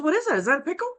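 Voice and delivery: put-on high, puzzled voice for the boyfriend; mock clueless boyfriend. The boyfriend asking what the cucumber is, high and baffled. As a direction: ask it like it's a total mystery.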